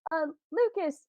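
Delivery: a hint of a kid calling a parent; child's voice. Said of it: "you hear your child laughing, and they're like".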